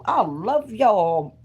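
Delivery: slow, doting grandma voice; drawn-out affection for the grandbabies. Retold or imitated. Grandma gushing over grandkids.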